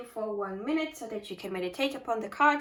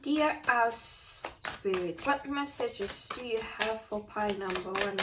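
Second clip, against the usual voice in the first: slow invocation. Acted. Invoking the spirit slowly.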